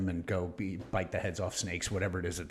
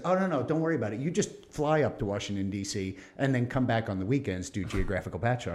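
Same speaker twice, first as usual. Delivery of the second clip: breezy dismissive brass. Retold or imitated. Retelling how the Navy brushed off his family. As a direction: brush the worry off like a pushy boss. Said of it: "they said".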